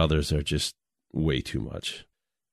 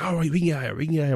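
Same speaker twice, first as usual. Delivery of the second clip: imitated buddy; 9 semitones higher, much faster than usual. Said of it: "he's like".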